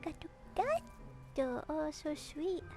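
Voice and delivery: high slow cooing. Real, not acted. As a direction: melt over the cat. Cooing at the cat.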